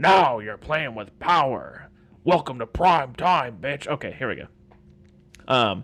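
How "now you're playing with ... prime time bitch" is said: loud, booming slasher-villain voice. Warming up with a famous line before a Freddy impression. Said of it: "should I do a Freddy impersonation".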